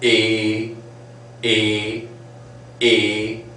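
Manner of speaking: A drawn out a bit long, gliding toward E. Shown as a demonstration. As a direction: stretch the A toward E. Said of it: "bit long".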